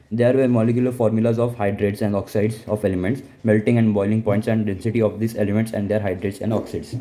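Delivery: slow, deliberate dictation pace; slow textbook reading voice; reading notes aloud. Acted. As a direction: read it out word by word for notes. Teacher reading notes aloud slowly.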